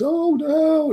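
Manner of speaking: high mock wail of dismay; imitated crying. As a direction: wail it like a retold crying child. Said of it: "And she's crying".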